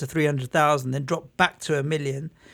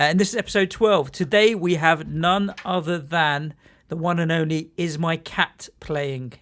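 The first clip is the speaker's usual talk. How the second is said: hyped announcer. Pretend. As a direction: announce it like a boxing MC. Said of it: "No, no. Genuinely".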